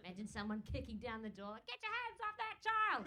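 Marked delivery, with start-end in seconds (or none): 1.7-3.1 high, loud, urgent order; mock rescuer's shout. Someone kicking down the door, mock outraged shout. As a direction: burst in shouting, hammed-up outrage.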